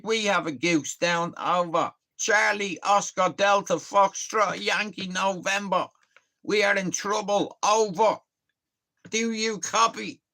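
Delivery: hammed-up military radio operator; mock radio call. Pretending in the shop to radio a sergeant, mock radio voice. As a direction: play at calling in on the comms. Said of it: "Fucking get on the comms".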